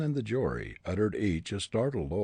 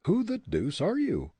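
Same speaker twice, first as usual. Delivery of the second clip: put-on higher, defiant young prisoner; defiant young man; 10 semitones higher, 4 dB louder than usual. A narrator's reading. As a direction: throw back the accusation. Hartley voiced.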